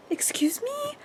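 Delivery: high, breathless whisper of disbelief; real stunned whisper; shocked whisper. Real, not acted. Shock at Rhys dying.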